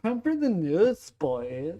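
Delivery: imitating a campy news voice; light sassy announcer take; zesty voice. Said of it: "I'm pretty good at doing a zesty voice".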